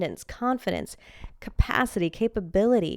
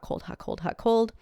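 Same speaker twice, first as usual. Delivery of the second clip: whispered; 3 semitones higher than usual. Acted. Listing hot-cold thermal cycles.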